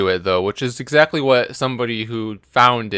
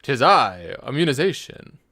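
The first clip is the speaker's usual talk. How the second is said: Transylvanian accent; 3 semitones higher than usual. Shown as a demonstration. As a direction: announce yourself like a count. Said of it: "say it again".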